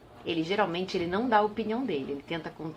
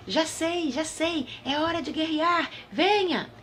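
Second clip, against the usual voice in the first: cavaleiro animado; 9 semitones higher, slower than usual. A narrator's reading. Cavaleiro tem uma ideia.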